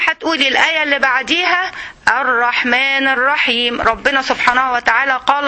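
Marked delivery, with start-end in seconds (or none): 2.1-3.8 "الرحمن الرحيم" drawn out slowly and savoured; slow reflective recitation. Shown as a demonstration. Teacher showing students how to recite "الرحمن الرحيم" slowly. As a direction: stretch out "الرحمن الرحيم", then pause. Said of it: "وتهدي شوية".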